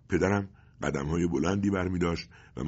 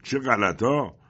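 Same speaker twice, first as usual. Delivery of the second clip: higher, louder scoff; mocking exclamation; 7 semitones higher, 6 dB louder, much slower than usual. A narrator's reading. Agent finds leaflet in father's pocket, loud scoff. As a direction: scoff at what you found.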